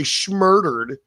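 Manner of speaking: mimicking a silly online euphemism; mocking baby talk. Griping about grown men online, a mock cutesy "schmurdered". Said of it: "If I hear one more dude say".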